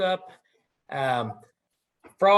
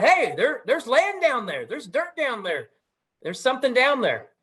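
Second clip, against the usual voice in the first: higher-pitched, excited cry of discovery; mild storytelling scream; 6 semitones higher than usual. Acted. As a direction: call out the news in a mock scream. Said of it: "he kinda screamed out".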